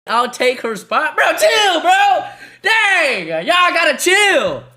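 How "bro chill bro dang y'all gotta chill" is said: high and loud through laughter; laughing at chat. Real, not acted. Streamer laughing at his chat, telling them to chill. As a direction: tell them to chill while cracking up.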